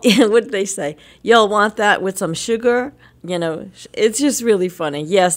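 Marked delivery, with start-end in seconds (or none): 1.2-2.9 southern twang. Retold or imitated. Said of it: "talk with a slight southern twang".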